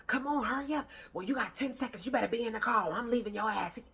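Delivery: mock a frazzled parent late for school; half-hammed stressed mom hurrying her child to the car. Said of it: "all of you parents that be stressed out".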